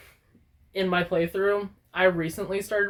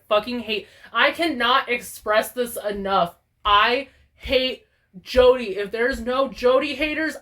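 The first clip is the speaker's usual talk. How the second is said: real dislike; 3 semitones higher, 4 dB louder than usual. Real, not acted. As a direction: stretch it out with real loathing. Ranting about hated villager.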